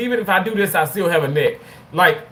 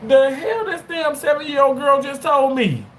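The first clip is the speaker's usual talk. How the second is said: laughing shout; 9 semitones higher than usual. Real, not acted. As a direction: burst out laughing in disbelief. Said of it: "and I bust out into".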